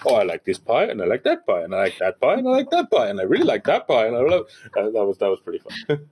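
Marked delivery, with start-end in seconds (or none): 0.1-2.3 imitating the pie list. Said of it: "he was just there kinda going". 2.3-3.1 "and I like that pie" jumped much higher; mock delight at one more pie; squeaky pie line. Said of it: "he was just there kinda going". 3.1-4.5 imitating the pie list. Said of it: "he was just there kinda going".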